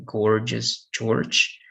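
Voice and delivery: "gorgeous" opening on "g", then a J sound; hard and soft G. Shown as a demonstration. Teacher repeating practice words for students, hard and soft G. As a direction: say "George" with soft G at both ends. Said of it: "All right, to practice".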